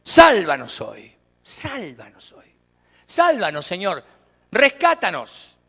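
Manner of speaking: slow pleading cry for rescue; crowd crying out. Retold or imitated. Crowd crying out to Jesus to save them, slow pleading shout. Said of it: "¿Saben qué quiere decir Hosana?".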